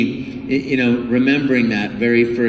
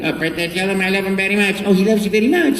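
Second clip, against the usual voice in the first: Mario voice; 7 semitones higher, faster than usual. Retold or imitated. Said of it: "doing this little dialogue back and forth".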